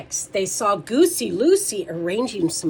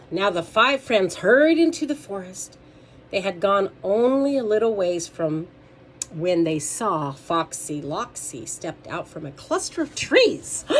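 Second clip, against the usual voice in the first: read-aloud voice, projected; children's story narration; 3 dB louder than usual. A narrator's reading.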